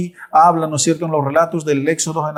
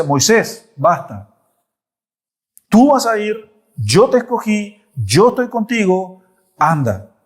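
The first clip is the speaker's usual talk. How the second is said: raised, forceful voice of God; stern divine command; 4 semitones higher than usual. Acted. God commanding Moses after banging the table, forceful. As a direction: order him firmly, like slamming the table.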